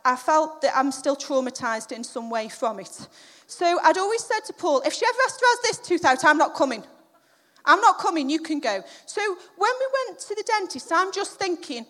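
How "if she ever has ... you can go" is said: loud, raised-pitch protest; emphatic refusal. Retold or imitated. Wife refusing the next tooth extraction to husband, emphatic. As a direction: put your foot down, loudly.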